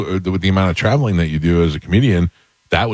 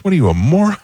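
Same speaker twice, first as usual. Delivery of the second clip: mock scolding father; 11 semitones higher, faster than usual. Father scolds son over bullets.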